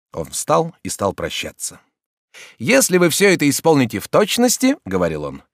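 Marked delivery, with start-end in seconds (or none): 2.6-4.8 higher, louder doctor advising brightly; raised voice of a doctor giving advice; doctor's voice. Acted. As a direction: play the chatty society doctor. Doctor takes his leave.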